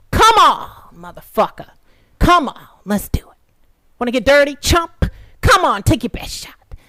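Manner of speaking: high, loud goading; mocking fighter's taunt; taunting challenge. Real, not acted. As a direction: dare them to swing.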